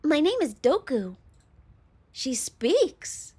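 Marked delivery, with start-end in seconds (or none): 0.0-1.2 slightly wobbly, higher-pitched cute voice; a hint of high-pitched cuteness; lightly cute girl voice. Slime girl giving her name, lightly cute. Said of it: "Wobbly, high-pitched, and very cute".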